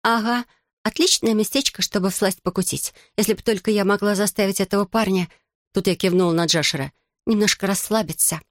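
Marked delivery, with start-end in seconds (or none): 0.0-5.3 playful put-on Irish accent, pitched up; hammed-up Irish accent for a laugh. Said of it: "Я изобразила лучший ирландский акцент". 7.2-8.4 lightly voiced put-on Irish accent. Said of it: "Я изобразила лучший ирландский акцент".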